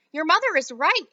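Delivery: father shouts at his daughter; shouting father. Acted. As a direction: bark agreement at the girl. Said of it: "shouted Mister Beauregard".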